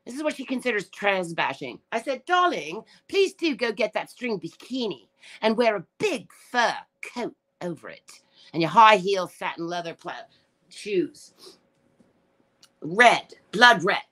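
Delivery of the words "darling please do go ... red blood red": mock sarcastic advice. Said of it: "I was horsing around".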